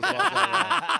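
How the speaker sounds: high, loud laughing apology; laughing through it. Real, not acted. Laughing as he walks back his boss praise. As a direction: giggle the words out in embarrassment.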